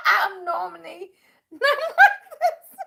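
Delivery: slow, laughing through the words. Real, not acted. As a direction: say it while still giggling. Apologizing while giggling.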